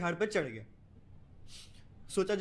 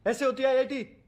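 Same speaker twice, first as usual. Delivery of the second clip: louder, higher exasperated outburst; irritated; 5 semitones higher, 7 dB louder than usual. Acted. Student snapping at his friend for calling, irritated outburst. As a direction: snap it out in frustration.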